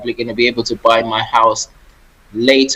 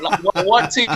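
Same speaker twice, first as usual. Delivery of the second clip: repeated with a higher, put-on affronted voice; mock indignant; 8 semitones higher than usual. Guest joking about waiting for the invitation, mock indignant. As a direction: play up the joking complaint. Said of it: "my first thought was".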